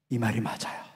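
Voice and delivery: ordinary talk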